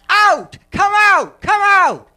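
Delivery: loud, high commanding shouts; retold yelling. Retelling handlers yelling at people, loud high shouts. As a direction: bark the order like a crowd yelling at the afflicted. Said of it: "they're yelling at people".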